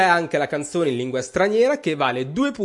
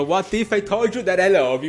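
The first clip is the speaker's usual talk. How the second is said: put-on Italian-accented English; 3 semitones higher than usual. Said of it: "più facile il titolo".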